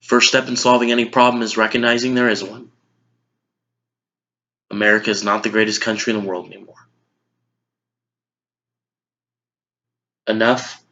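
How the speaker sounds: subdued, sober close to a speech; low-key, resigned conclusion; Will McAvoy. Acted. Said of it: "as news anchor Will McAvoy".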